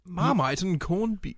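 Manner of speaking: put-on slow, drawn-out old-timey English accent; old-timey English accent, each word savoured. Shown as a demonstration. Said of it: "old-timey English accent".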